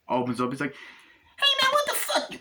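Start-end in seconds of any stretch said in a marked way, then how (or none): 1.4-2.3 very high, startled squeal; high shriek of surprise; shocked actor impression. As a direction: caught off guard at the trunk. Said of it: "doing the impressions of the, uh, actors".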